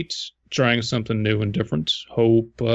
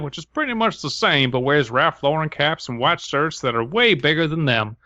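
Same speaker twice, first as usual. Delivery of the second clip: hammed-up Southern accent; 4 semitones higher than usual. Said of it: "in your best Southern accent".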